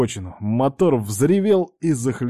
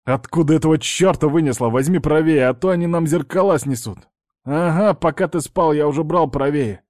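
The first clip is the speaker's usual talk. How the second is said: alarmed; 5 semitones higher, 3 dB louder than usual. Acted. Near-miss with truck, alarmed.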